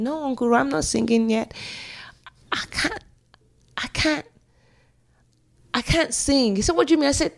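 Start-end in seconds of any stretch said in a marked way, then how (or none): 0.0-6.6 higher-pitched, halting refusal; reluctant protest. Retold or imitated. Acting her refusal to Uncle Roy. 6.8-7.1 high-pitched imitation of a baffled uncle; puzzled question.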